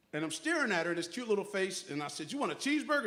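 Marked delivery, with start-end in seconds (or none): 2.3-3.0 playful question. Retold or imitated. Grandfather playfully asks granddaughter.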